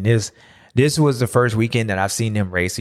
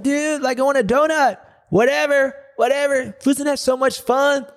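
mock carefree brother. Winning brother chattering to sulking sibling, high dopey mock. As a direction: play it dopey and oblivious. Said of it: "Jeff's like".

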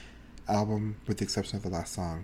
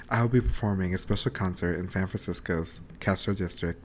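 imitating a pop singer meme; 6 semitones lower than usual. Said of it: "all I can think about is that damn meme".

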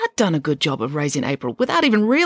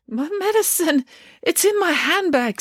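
put-on high, syrupy old lady voice; a theatrical, patronising dame; gushing grand dame; 14 semitones higher than usual. Dame Bronwyn feigns distress.

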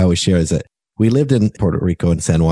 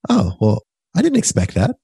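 light mild surprise; 2 semitones higher than usual. Retold or imitated. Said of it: "to say".

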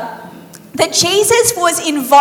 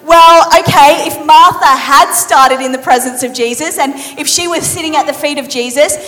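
mock doubt. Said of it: "you're like".

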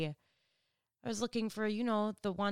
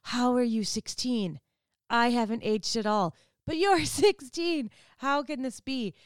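amazed disbelief; 3 semitones higher, 4 dB louder than usual. Retold or imitated.

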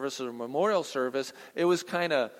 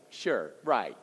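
incredulous; 5 semitones lower than usual. Retold or imitated. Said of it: "saying it incredulously".

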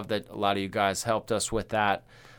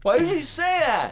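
a much higher, louder laughing no; shocked protest; 7 dB louder than usual. Real, not acted. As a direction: yelp it out in mock outrage. Shocked by cohost's joke.

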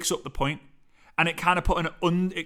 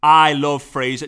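shouting; 9 dB louder than usual. Shown as a demonstration.

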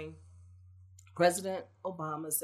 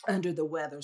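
mouth full; 7 dB louder than usual. Real, not acted. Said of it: "I have a cough drop in my mouth".

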